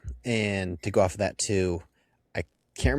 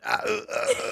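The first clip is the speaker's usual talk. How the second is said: prolonged wordless stammer, pitched up; Dave Franco. Retold or imitated. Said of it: "I never realized how prolonged that was".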